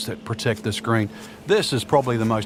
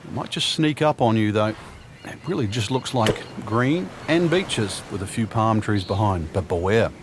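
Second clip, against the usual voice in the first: golf commentator. Acted.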